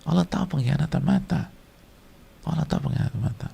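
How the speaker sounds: high-pitched, restrained repeated warning; solemn admonition. Real, not acted. Preacher reminding the congregation that God knows, high solemn admonition. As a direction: raise the pitch without pushing the volume.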